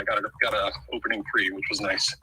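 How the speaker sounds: breathless sports talk; winded, talking between breaths. Real, not acted. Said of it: "Sorry for my out-of-breathness".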